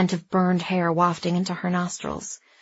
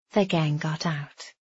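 sly villain voice; 3 semitones lower, 5 dB quieter, slower than usual. A narrator's reading. Sly villain greets them.

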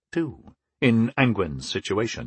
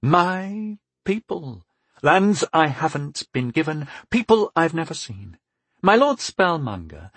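put-on weary, resigned young duke; 5 semitones higher than usual. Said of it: "he said with resignation".

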